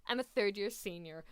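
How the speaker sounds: lightly imitated senior's inflection; imitating a character's voice. Quoting the third-year senior's line, lightly imitated. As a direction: copy his inflection, only lightly. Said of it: "That is literally his voice".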